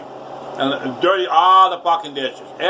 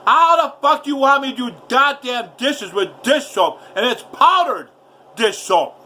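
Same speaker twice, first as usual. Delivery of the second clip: furious yelling; 8 semitones higher than usual. Retold or imitated. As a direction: scream it out in disbelief, slowing on powdered dish soap. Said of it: "I was screaming and yelling".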